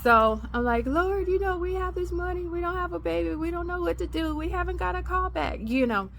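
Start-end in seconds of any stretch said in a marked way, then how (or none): 0.9-5.6 high, tearful plea to God, retold; crying prayer. Wife praying alone in the car, high and tearful. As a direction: pour out a weepy prayer, voice pitched up. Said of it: "talking to God and crying".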